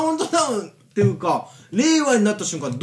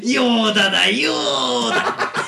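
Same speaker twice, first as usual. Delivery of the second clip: Yoda voice; much slower than usual. Acted. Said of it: "一緒だ".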